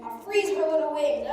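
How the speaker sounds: loud, laughing through the words; gloating villain laugh. Acted. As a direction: cackle it out in triumph. Villain gloats over his plan.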